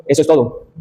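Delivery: "Eso es todo" settling gently downward to close; falling concluding intonation. Shown as a demonstration. Student giving an example of a conclusion, "Eso es todo" with falling tune. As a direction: let "Eso es todo" drop in pitch as a conclusion. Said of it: "Entonación descendente para dar una conclusión".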